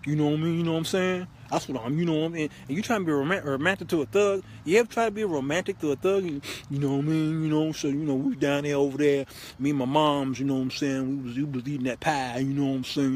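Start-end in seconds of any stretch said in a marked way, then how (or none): 0.1-2.5 a hint of inarticulate thug; thug talk. Showing how a hardcore thug talks, lightly imitated. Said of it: "He talk like this". 6.2-13.1 lightly voiced rambling thug; a hint of inarticulate street talk. Thug rambling to his girlfriend, lightly imitated. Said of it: "He talk like this".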